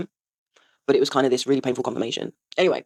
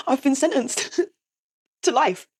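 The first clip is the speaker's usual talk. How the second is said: higher, slow lament with laughs; laughing despair; 9 semitones higher, slower than usual. Retold or imitated. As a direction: lament it slowly through laughter. Retold breakdown, laughing at it.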